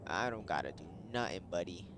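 lightly voiced cocky guard dog; a touch of tough-dog character; game dog's voice. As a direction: punch the openings like a boss dog. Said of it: "That's how he sounds".

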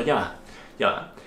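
wary and increasingly alarmed, talking yourself through the danger; a normal person suddenly smelling a trap; suspicious inner voice. Retold or imitated. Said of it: "tú dirías por un segundo".

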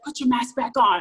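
lightly imitated yelled order; mild retold yell. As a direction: imitate a stranger yelling, at half strength. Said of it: "she yells at me".

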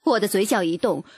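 ordinary delivery, nothing marked

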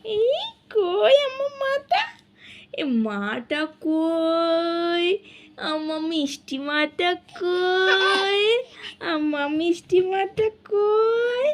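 put-on drawn-out loving baby talk; slow tender cooing. Mother cooing slowly to her baby, tender and drawn out. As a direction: stretch each word out to coax the baby.

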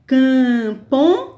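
"Camponês" slowly split as cam-po-nês; syllable by syllable. Shown as a demonstration. Teacher showing syllable division, "Camponês" said syllable by syllable. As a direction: break "Camponês" into drawn-out syllables. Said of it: "divisão silábica e a sílaba mais forte".

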